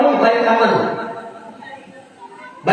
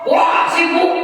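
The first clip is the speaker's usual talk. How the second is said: busy shout; 5 semitones higher, slower than usual. Retold or imitated. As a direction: blurt it out, too busy to stop. Busy office man brushing off azan.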